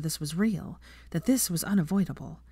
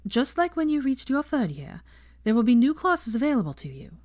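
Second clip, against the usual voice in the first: a touch higher, brisk classroom address; a professor ending her lesson, lightly voiced teacher; 4 semitones higher than usual.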